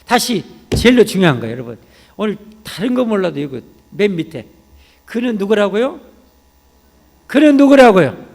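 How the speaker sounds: shouted, high-pitched questions to the congregation; loud, fervent pulpit call and response; full-force preaching. Real, not acted. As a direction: thunder out each question and drive home the answer.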